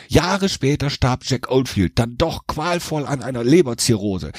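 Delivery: usual speaking voice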